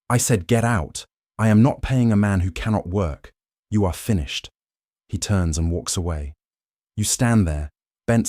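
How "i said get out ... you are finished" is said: raised, hard firing voice; angry dismissal. Acted. Foreman firing injured worker.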